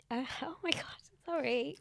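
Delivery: embarrassed laugh on the edge of crying; tearful apology. Real, not acted. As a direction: apologise while fighting back tears. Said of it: "I'm gonna cry".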